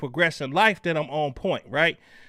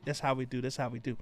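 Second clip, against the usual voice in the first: quiet; 7 semitones lower, 12 dB quieter, faster than usual. Real, not acted. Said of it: "you see how I just took her name and flipped it".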